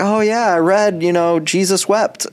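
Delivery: mock-earnest fake report in a high voice; pretending. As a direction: pretend you did the reading, pitched well up. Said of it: "not pretending, like".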